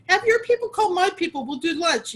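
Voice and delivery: put-on crazy British accent. Sister waving goodbye from the top of the stairs, in a loud, hammed-up British accent. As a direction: play a grand British socialite dismissing a friend in a mock British accent. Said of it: "in this really crazy British accent".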